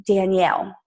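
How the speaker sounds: imitated sweet Southern voice; lightly put-on Southern accent. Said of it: "I'm gonna do her accent".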